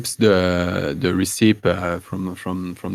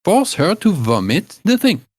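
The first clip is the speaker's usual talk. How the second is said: put-on higher-pitched old woman explaining a cure; higher old crone giving remedy advice; old woman herbalist; 8 semitones higher than usual. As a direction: play the old village healer, fussy and sure of herself. GM voices Gerda the herbalist.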